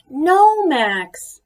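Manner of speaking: high loud scolding no; sharp no. A narrator's reading. Sister forbidding Max his toys, a sharp no. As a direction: stop him with a sharp shout. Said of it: "said Ruby".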